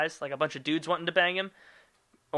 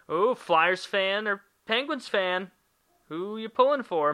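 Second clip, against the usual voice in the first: excited aside; 5 semitones higher, slower than usual. Real, not acted. Eager sports aside.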